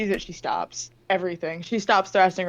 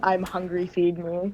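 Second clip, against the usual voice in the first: ordinary talk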